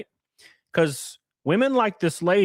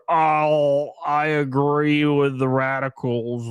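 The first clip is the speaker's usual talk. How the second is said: mock Sean; much slower than usual. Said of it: "Sean's like".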